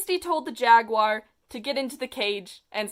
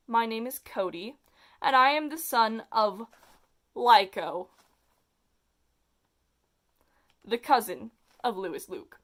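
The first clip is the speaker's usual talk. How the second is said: calmer tone. Acted. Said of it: "in a calmer tone".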